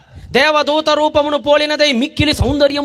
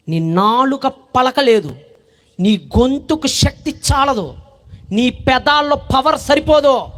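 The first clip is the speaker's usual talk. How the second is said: slow angel; slower than usual. Acted. Angel continues slowly.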